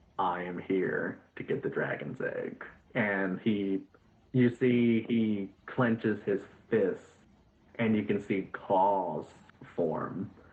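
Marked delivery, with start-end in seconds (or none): 0.2-2.7 whispered close and quiet. Voicing a character who leans in close to a player: whispering. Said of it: "whispers into your ear".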